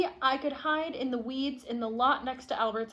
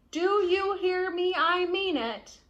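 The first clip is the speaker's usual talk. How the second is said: slower, higher and louder, stamping his foot in words; insistent outburst; 6 semitones higher, 5 dB louder than usual. Acted. Stubborn boy telling his parents he won't move, loud and insistent. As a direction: dig in and refuse, louder.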